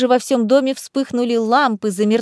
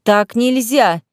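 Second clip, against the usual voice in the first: slow, louder scolding; 4 dB louder, much slower than usual. Acted. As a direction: scold her firmly. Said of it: "тут же начала ругаться рыжая".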